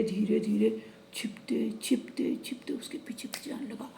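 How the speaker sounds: hushed sneaking whisper; storyteller whispering the sneaking calf. A narrator's reading. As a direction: whisper as if tiptoeing. Calf sneaking after mother.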